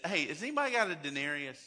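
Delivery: quick, offhand request; casual aside. Retold or imitated. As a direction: toss it off fast as if nothing is at stake. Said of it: "he just kinda stops and says".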